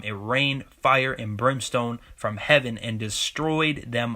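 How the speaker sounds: measured, emphatic Bible reading; preacher reading scripture. Acted. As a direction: lean on the key words, stretching some out.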